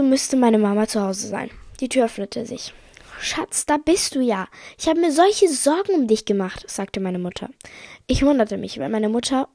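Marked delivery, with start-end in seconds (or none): 3.2-6.6 a higher-pitched, lightly voiced fretting mother; worried mother. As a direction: greet the child with motherly worry, pitched up. Worried mother greets child.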